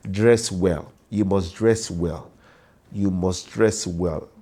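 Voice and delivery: slow, deliberate stress on "dress"; emphasis on DRESS. Real, not acted. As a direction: drive home "dress", slowing with each repeat. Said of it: "Emphasis on dress".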